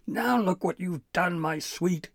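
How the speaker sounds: loud, high wail of complaint; howling. A narrator's reading. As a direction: howl at your sweetheart in hurt outrage. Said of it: "Nash howled".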